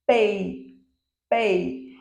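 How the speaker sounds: "pei" said on its own as one unbroken syllable; isolated syllable, said slowly; syllable demo. Shown as a demonstration. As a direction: show "pei" with no break between e and i. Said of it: "enquanto eu pronuncio pei".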